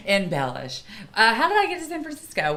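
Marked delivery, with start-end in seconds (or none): 1.1-2.6 storyteller restart. Acted.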